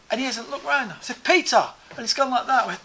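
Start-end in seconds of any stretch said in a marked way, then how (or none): 1.2-1.7 high, loud repeated call; retold shout. Calling Peter who hasn't looked round, shouting. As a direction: call out harder to be noticed. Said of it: "So I've shouted".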